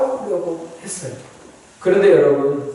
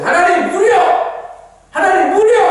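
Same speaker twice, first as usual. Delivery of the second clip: high, urgent cry for water; demanding prayer; 12 semitones higher, 3 dB louder, faster than usual. Acted. Thirsty people praying for water, high urgent demand. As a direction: cry out a mock desperate demand to God. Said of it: "막 이럴 거 아니에요".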